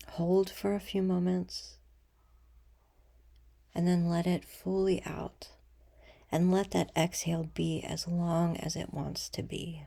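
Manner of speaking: soft, unhurried meditation voice with long pauses; guided meditation. Acted. Leader guiding listeners to breathe and imagine a threshold, calm meditation voice. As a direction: ease them gently into stillness, letting sentence ends fall away.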